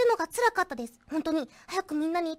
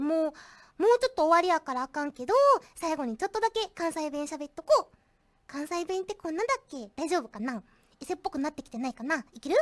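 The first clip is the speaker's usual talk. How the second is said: a light, casual Kansai-ben on request; Kansai dialect; 3 semitones lower than usual. Pretend. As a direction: slip into easy Kansai dialect, unsure of it. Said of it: "二分間方言で喋ってください".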